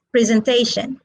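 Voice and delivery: "presentation" said presen-TA-tion; stress on third syllable. Shown as a demonstration. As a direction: hit the TA in "presentation". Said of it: "they are stressed on the third syllable".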